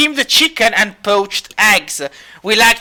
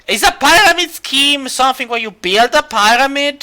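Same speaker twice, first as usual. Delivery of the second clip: raised, higher-pitched bartender voice; calling out a question; 5 semitones higher than usual. Acted. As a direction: call it across the inn. Bartender calls question over to Sphinx.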